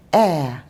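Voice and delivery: "Air" ending in an open vowel, no R; British air, R dropped; British non-rhotic air. Shown as a demonstration. British wife shows her accent, R dropped at end. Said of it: "we sometimes drop the R sound".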